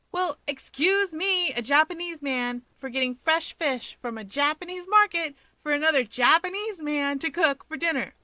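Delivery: mock-offended, drawing out the first words; indignant sarcasm. A narrator's reading. Hawks sarcastically defends his fish dinner, lightly voiced.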